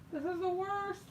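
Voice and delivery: high, whiny groan of defeat; whiny complaint. Real, not acted. Giving up on finding the marker, high whiny groan. Frustrated, can't find marker.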